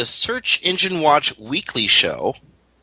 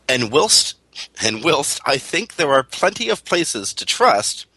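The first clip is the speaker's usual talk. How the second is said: put-on reading aloud in a light Canadian accent. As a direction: quote it with a hint of Canadian accent. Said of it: "I'm doing it in a Canadian accent".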